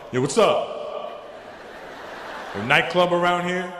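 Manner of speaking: put-on black American gangster voice. Nervous visitor rolling up to a bouncer, gangster. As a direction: play it cool with a mock gangster accent. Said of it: "a black American guy".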